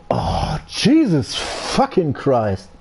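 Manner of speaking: slow, pained despair; slow exasperated near-cry; exasperated groan. Real, not acted. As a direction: drag it out like a groaning sob. Exasperated groan after penalty.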